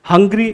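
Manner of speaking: hungry, stressed on HUN; stress on first syllable. Shown as a demonstration. Teacher showing learners first-syllable stress, stress on HUN in hungry. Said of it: "first syllable पे stress".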